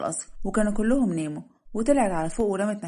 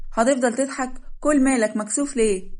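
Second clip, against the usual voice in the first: higher, louder mock scolding; playful challenge; 5 semitones higher, 4 dB louder than usual. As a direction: tease him with a raised voice. Bride challenges his laughing at her. (توبيخ مازح بصوت مرتفع)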